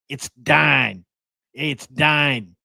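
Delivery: imitated Toledo accent, "Dine" for Don; lightly put-on northern Ohio twang on "Dine". Family friend from Toledo on the phone, northern accent. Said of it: "really northern accent".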